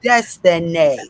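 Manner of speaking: loud, high and laughing; cracking up for real; amused exclamation. Real, not acted. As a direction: call out the name through laughter. Cracking up at the comments.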